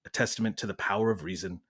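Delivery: measured British narrator; British accent. Acted. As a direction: Masterpiece Theatre host reading. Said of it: "We're going British".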